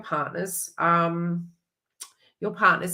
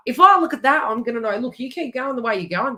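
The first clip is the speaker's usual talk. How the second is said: mock self-scolding; 6 semitones higher, 6 dB louder than usual.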